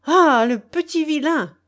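high, loud, indignant scolding; outraged high-pitched woman's rebuke; furious cry. A narrator's reading. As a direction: cry out at a naughty pest. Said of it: "cria-t-elle au plus jeune".

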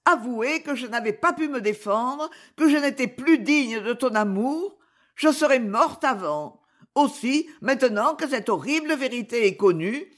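a hint of a guilty wife begging; despairing wife. Clémence's voice in the story. (épouse désespérée, voix un peu plus aiguë)

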